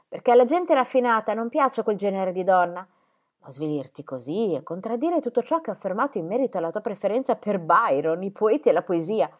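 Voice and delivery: rimprovero brusco, un po' più forte; brusca. Acted. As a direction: sgrida la figlia con tono secco. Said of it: "parlò molto bruscamente". (madre che rimprovera Cinzia, brusca e seccata)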